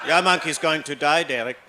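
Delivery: hammed-up dad, mock grave; a father scaring his son with a joke; dad's voice.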